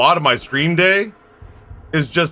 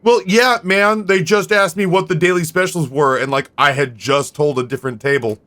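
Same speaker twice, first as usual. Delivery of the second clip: lightly acted defensive excuse; defensive waiter. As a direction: protest to the boss, a touch defensive. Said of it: "you got kind of defensive".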